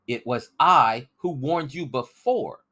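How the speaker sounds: put-on a boy stung by distrust; indignant boy. Crispin protests to the suspicious rebels, indignant and boyish.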